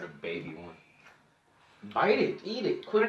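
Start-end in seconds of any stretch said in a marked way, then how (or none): 1.9-3.1 urgent excited urging. Real, not acted. Urging friend to eat.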